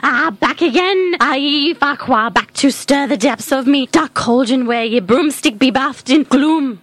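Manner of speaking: put-on cackling old crone, pirate-ish dialect; lightly voiced hag; old witch voice. Witch Esmeralda voice.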